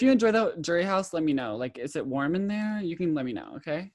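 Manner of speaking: mock sweet taunt. Real, not acted. Mocking opponent about jury.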